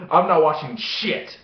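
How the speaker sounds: slow, emphatic repeat for comic effect; setting her straight. Retold or imitated. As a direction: spell it out slowly with mock firmness. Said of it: "let me get something straight right now".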